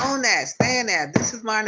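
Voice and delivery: high, loud, insistent claim; voice going up. Real, not acted. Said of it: "that's when my tone of my voice will go up".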